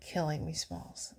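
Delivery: whispered movie quote; whispering. Acted. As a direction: breathe the line out unvoiced.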